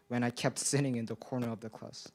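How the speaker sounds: nervous, trembling voice; shaky from nerves. Real, not acted. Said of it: "like, like, like right now".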